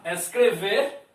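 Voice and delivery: Escrever with a stronger final -ver; stress on last syllable. Shown as a demonstration. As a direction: lean on the end of Escrever. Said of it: "ela tem a última sílaba mais forte". (Escrever com a última sílaba mais forte)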